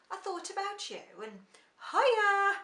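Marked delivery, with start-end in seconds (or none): 1.9-2.5 loud, high Black Country hiya; broad Black Country hiya. Shown as a demonstration.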